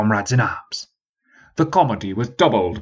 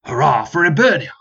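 half-hearted reply; 5 semitones higher, 4 dB louder than usual. Acted. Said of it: "some of us still floundering".

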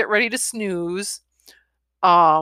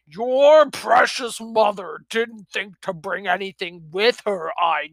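sarcastic grandfather. Acted. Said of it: "He raised his voice".

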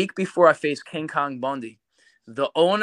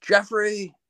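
higher-pitched mom calling her son; imitated mom; 7 semitones higher than usual. Mom calling her son to the phone, imitated motherly call. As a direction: mimic a mother calling out a name. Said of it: "My mom's like".

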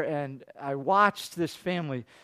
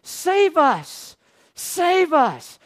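imitating crowd yelling; 8 semitones higher, 4 dB louder, much slower than usual. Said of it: "And they're yelling this".

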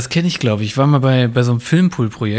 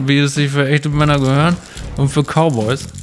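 cigarette in mouth; 3 semitones higher than usual. Real, not acted. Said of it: "heute mit Kippe im Mund".

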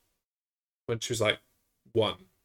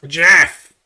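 higher, loud mock call of his name; imitating Jeff Reese; 7 semitones higher, 9 dB louder, much slower than usual. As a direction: imitate the teacher's odd way of talking. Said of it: "That's how he talked".

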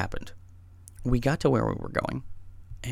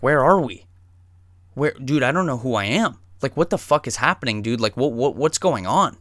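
louder, stammering confusion; imitated freak-out; 5 dB louder than usual. Tripping friend to his buddy, imitated bewildered panic. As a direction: act out a friend losing his bearings. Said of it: "starts freaking out".

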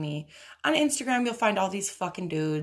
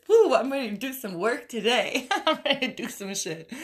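hyped; 4 semitones higher than usual. Real, not acted. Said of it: "Those bars got me hyped".

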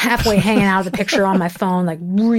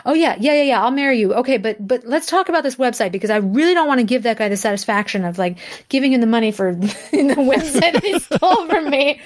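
high, quick, laughing yes; mock flustered acceptance; excited rush; 5 semitones higher, faster than usual. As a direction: gush then get distracted. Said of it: "And I'm like".

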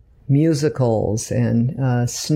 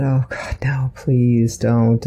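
whisper; slower than usual. Retold or imitated. Mother dreading daughter acting.

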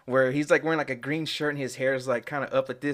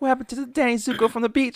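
high, put-on girlish voice, much higher; mock Sandy; 11 semitones higher, 3 dB louder, faster than usual. Sandy asking where her summer boyfriend went, high mock voice. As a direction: imitate a hurt sweetheart, pitched way up. Sandy quoted, lovesick complaint.

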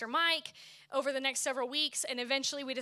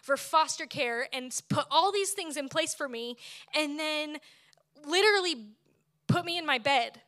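angry protest to God; 2 semitones higher than usual. Retold or imitated. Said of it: "and I was like".

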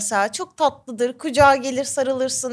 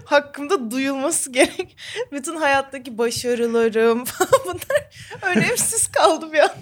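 after laughing hard; slower than usual. Real, not acted. Laughing about her empty life.

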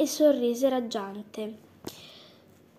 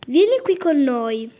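squawking call; 5 dB louder than usual. Acted. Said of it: "strepitò".

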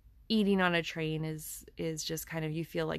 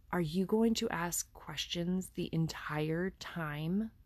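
disdainful. Retold or imitated. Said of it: "with just this disdain in her voice".

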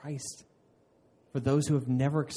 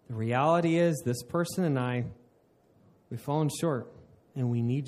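sincere prayer. Shown as a demonstration. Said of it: "This is to say".

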